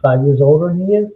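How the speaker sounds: muffled, distant mic sound; like talking from a tunnel; underwater. Real, not acted. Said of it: "your mic is sounding like you're in the tunnels".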